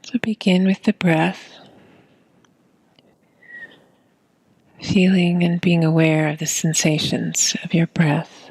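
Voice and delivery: calm meditation guide, long silences between phrases; unhurried breath-awareness guidance; guided meditation. Acted. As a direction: guide them gently into the breath, leaving long pauses.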